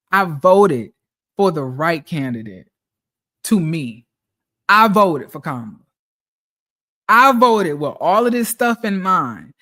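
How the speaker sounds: loud, punchy indignation; indignant rant. Real, not acted. Venting to followers about voting right yet losing his job. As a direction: hammer each I voted.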